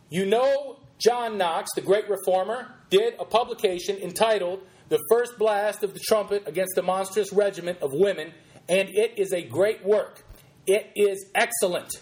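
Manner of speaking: lightly preacherly, deliberate quote reading. Acted. Host reading the sermon's first quote, lightly preacherly. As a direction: read it out with emphatic, measured pulpit weight.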